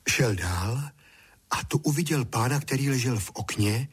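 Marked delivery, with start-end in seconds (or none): none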